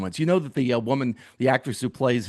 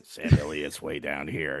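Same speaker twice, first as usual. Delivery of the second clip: drops far lower in pitch and softer; mock Sam Elliott deep rumble; 11 semitones lower, 6 dB quieter than usual. Shown as a demonstration. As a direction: dig down low to show how deep Sam Elliott's voice is. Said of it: "I have this little squeaky voice".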